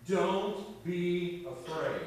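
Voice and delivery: slow, gentle reassurance; slow reassuring. Acted. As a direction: comfort them slowly. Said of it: "all he said to them was".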